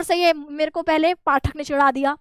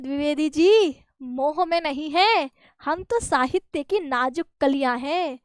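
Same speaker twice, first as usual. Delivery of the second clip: slow, smiling and unruffled; a hint of a cool smile, slowly; slower than usual. Gulab Rai calmly answering Dwivedi with a cool smile. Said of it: "ठंडी मुस्कान के साथ".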